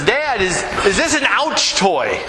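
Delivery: a hint of a young girl asking; light childlike lift, curious; lightly voiced little daughter. A touch of a small daughter asking her dad in Walmart.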